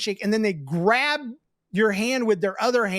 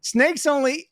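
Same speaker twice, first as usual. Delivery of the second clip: put-on kid voice; 6 semitones higher, 4 dB louder than usual. Shown as a demonstration. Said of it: "oh, wait, voice".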